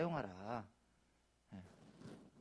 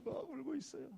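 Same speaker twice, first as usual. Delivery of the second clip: high, soft mock wail; lightly acted tearful whimper; imitated crying; 12 semitones higher, 7 dB quieter than usual. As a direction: sound like a helpless old woman weeping. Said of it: "할머니가 막 울고 있는 거예요".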